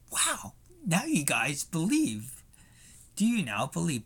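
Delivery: encouraging Jesus cheering on the disciples. Retold or imitated. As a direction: gently praise them. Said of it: "in a encouraging, um, type of way".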